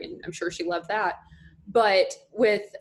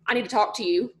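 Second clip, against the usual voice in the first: put-on thick North Mississippi accent. Dad needing a word, thick Mississippi accent. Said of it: "has a super thick accent".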